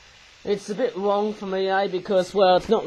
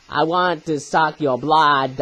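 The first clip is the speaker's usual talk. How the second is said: put-on slow, lightly done European vampire accent; a hint of a European Count, drawn out slowly; 4 dB louder, slower than usual. Reviewer imitating a vampire seeing the bat, weak European accent. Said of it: "not very good on these European accents".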